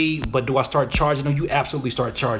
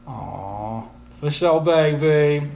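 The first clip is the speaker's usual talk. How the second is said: slow, drawn-out sweet talk; getting all soft; much slower than usual. Acted. Streamer slipping out of his usual voice, going soft. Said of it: "getting all soft and stuff".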